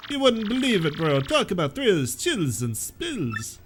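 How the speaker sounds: a self-mocking, deliberately bad Italian accent. Player voicing Luigi's text in a bad Italian accent. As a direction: ham up a clumsy Italian accent as Luigi, bro. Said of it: "My worst Italian accent".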